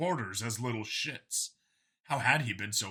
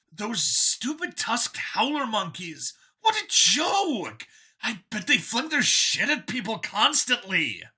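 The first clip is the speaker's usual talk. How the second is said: higher, louder, keen voice; a cheerful zealot pitched up; android copy, eager; 9 semitones higher, 5 dB louder, slower than usual. A narrator's reading. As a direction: sell it like a proud believer. Copy mocks species.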